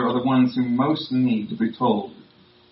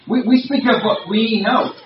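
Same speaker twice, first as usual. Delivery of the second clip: higher, louder insistent Jesus; Jesus insisting; 9 semitones higher, 6 dB louder than usual. Retold or imitated. Preacher voicing Jesus to Nicodemus, higher and louder, insistent. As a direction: press the claim home as Jesus would.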